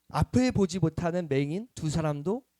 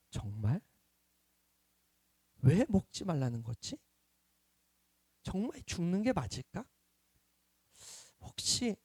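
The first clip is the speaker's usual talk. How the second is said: doubting whisper rising to suspicion; 2 semitones higher than usual. Retold or imitated. Adam and Eve's inner doubt.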